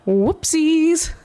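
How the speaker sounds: playful whisper; whispered oopsie. Acted. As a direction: breathe it out like a secret. Playful oops after a mistake.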